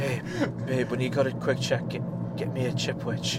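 breathless stoner voice; winded, lazy pothead plea; out of breath. Acted. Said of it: "sounds like out of breath Ant".

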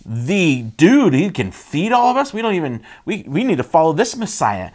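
acting out an awestruck crowd; mock amazement with emphatic bursts; amazed crowd. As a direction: marvel like an onlooker, excitedly. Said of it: "all the people are amazed".

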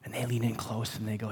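normal talking voice

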